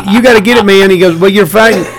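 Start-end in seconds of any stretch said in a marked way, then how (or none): 0.1-0.9 Southern booker. Retold or imitated. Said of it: "he said it in a Southern accent". 1.2-1.8 imitated Southern accent; Southern booker. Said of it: "he said it in a Southern accent".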